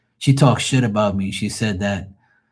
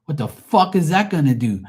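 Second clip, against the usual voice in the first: scornful duh; 8 semitones higher, 5 dB louder than usual. Retold or imitated. Mocking rival's reading.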